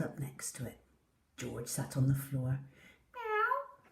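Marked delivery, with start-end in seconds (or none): 3.1-3.8 very high, soft little meow; soft kitten meow. Acted. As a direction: mew quietly, asking. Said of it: "he said".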